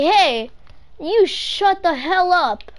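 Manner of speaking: loud, high pretend telling-off; mock angry retort. Gamer answering friends who call them bot, mock-angry shout. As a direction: shout down imagined doubters.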